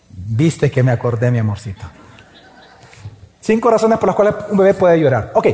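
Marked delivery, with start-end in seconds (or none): 0.1-1.8 much lower, affectionate aside to wife; tender aside. Real, not acted. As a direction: drop low, a private word to your sweetheart. Playful aside to his wife. (comentario cariñoso en tono grave)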